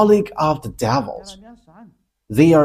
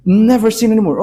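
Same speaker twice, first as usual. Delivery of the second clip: Never hit higher and louder; emphatic never; 4 semitones higher, 3 dB louder than usual. Shown as a demonstration. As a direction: proclaim it, Never stressed. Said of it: "the words is emphasizing".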